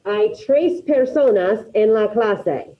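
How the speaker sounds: "Hay tres personas en la clase" said slowly, each word set apart; slow example sentence. Shown as a demonstration. Teacher giving students an example, slow and deliberate. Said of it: "let me give you an example".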